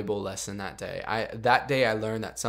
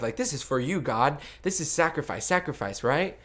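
higher, eager self-justifying plea; eager pleading; 5 semitones higher than usual. Retold or imitated. Her younger self pleading with God, higher and eager.

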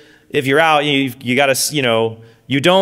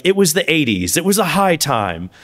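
mock documentary narrator. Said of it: "whenever I watch that".

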